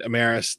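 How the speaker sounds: "Amaris" with an R in it; mispronounced town name. Real, not acted. Reviewing the brewery, mispronouncing Emmaus as "Amaris". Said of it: "not Amaris, you weirdo".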